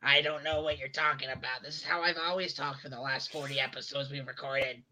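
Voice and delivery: raspy smoker's rasp; rough smoker voice, low; chain smoker voice. Acted. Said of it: "sound like a chain smoker".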